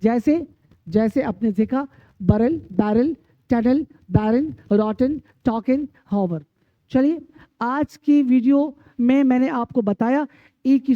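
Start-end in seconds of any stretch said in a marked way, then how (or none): 2.2-6.4 word-list demo, short "a" ending as in हॉवर. Shown as a demonstration. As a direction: say the last vowel of बैरल and रॉटन as a short "a". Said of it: "ई का उच्चारण आ पढ़ा जाएगा".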